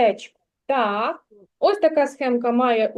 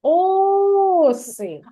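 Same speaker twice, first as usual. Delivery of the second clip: calling out; 5 semitones higher than usual. Shown as a demonstration. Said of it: "погукай це слово".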